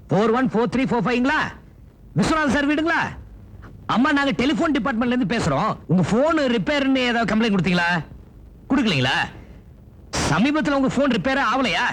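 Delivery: high-pitched official caller on the line; phone enquiry. Pretend. Phone call posing as telephone department. (தொலைபேசியில் உயர்ந்த குரலில் விசாரிப்பது)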